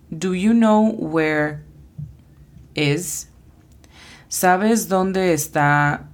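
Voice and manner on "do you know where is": slow careful English, "know" stressed; slow model phrase. Shown as a demonstration. Teacher modelling an English question slowly. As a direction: say "Do you know where" slowly. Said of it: "la siguiente frase es".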